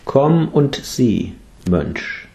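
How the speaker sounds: gentle welcome. Acted. Buddha welcomes the new monk.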